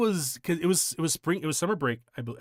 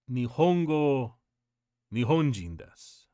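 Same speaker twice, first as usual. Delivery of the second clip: stern father quote; slower than usual. Retold or imitated. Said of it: "but he basically said".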